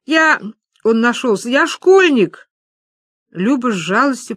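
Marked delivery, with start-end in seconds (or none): 0.0-2.5 high whining plea; whimpering. A narrator's reading. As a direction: beg like a frightened schoolboy. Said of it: "захныкал пацан". (жалобно хныча)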